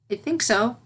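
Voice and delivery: not quite convinced pupil; a hint of a thoughtful filly. Filly answering her teacher.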